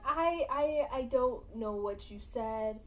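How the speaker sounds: confused, halting retold reply; mock confusion. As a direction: stammer the start, imitating someone baffled. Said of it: "like, so confused".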